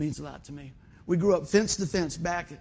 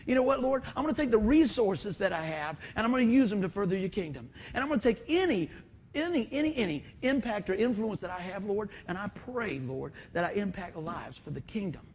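prayer; 3 semitones higher than usual. Acted. Preacher praying aloud to God.

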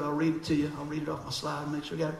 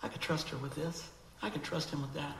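God speaking softly; 2 semitones lower, 10 dB quieter than usual. Retold or imitated. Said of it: "he will come back and say".

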